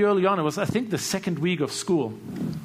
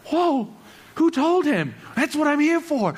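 high, loud, amazed exclamation; astonished outburst; 12 semitones higher, 4 dB louder than usual. Retold or imitated. Young student hearing the teacher describe his search, astonished outburst. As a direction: burst out as if your secret has been found out.

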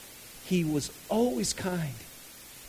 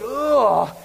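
slow, louder mock groan of disgust; disgusted ugh; 5 semitones higher, 6 dB louder than usual. Pastor mimicking people who hate cigar smoke, mock disgust. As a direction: let out a hammed-up disgusted ugh. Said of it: "to some, it's like".

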